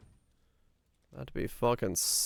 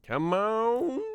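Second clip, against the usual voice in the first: 1 high urging; 10 semitones higher than usual. Real, not acted. Frustrated urging at the game.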